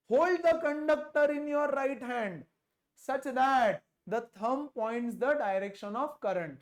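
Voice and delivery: slow, emphatic dictation; deliberate, drawn-out recitation; reciting a rule. Real, not acted. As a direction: spell out the rule slowly for the class.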